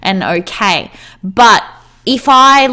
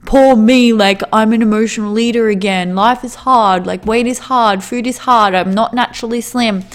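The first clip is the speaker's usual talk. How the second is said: mock self-pity. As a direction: ham up feeling sorry for yourself. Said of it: "I could just go".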